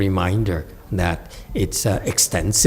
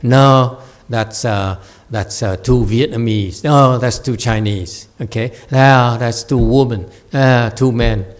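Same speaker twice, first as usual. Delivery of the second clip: louder, fussy turning down each choice; picky refusal; 4 dB louder than usual. Retold or imitated. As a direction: play a choosy student rejecting every option. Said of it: "he doesn't say".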